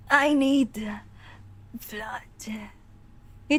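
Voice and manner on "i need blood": very slow voice from the back of the throat; throaty zombie. Acted. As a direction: drag each word out like a dying undead man. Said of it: "put my voice at the back of my throat".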